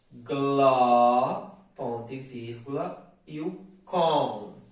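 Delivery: dictating. Shown as a demonstration. Teacher dictating syllables for students to write down. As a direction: dictate it for copying. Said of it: "As sílabas acentuadas".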